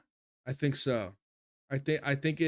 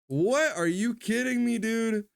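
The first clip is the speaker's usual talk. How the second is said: higher and louder, what and kidding me; can't believe he missed this band; stunned disbelief; 9 semitones higher, 3 dB louder than usual. Real, not acted. Viewer realizing he never heard of this band, stunned.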